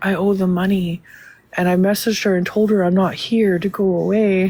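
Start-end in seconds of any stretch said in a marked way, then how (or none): 0.0-1.0 imitated whispering. Retelling a phone call where a man started whispering, retelling a whisper. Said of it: "started whispering".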